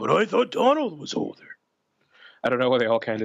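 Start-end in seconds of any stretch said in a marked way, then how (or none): 0.0-1.4 rough, gruff, very high put-on voice. Delivering a quoted line for the listeners in a gruff voice. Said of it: "that voice is a little too gruff".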